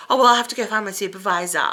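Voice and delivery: quick, sassy imitation; mock put-upon sass. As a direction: mimic a snippy brush-off, rattled off fast. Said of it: "Like, sass, like a real bitch".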